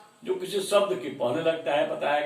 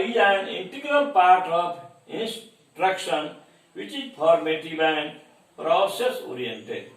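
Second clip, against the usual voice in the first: slow, deliberate read-out of the question; slow dictation; much slower than usual. Acted. Teacher reading the question to students, slow dictation. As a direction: read it word by word for the class to copy.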